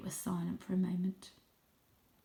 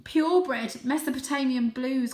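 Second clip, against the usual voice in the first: croaked; 6 semitones higher, 6 dB louder than usual. Acted. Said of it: "croaked the elder Paul".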